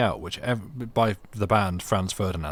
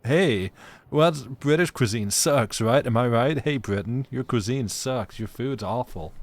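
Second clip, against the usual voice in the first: mocking American heckler voice; mock American accent. Streamer imitating Americans mocking British food, American accent. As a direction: taunt in a put-on American accent. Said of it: "like the Americans posting a picture".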